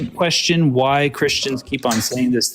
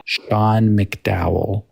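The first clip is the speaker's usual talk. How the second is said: "Sean McDowell" repeated even slower, ending on a rise; slow name, rising; much slower than usual. Shown as a demonstration. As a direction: drag out "Sean McDowell" with an upturn at the end. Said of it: "S E A N McDowell".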